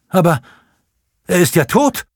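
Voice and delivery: exclaims in shock. Acted. Simon cries out to the sexton at the dead priest, shocked. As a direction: cry out in horror at the frozen body. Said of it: "rief der Medikus".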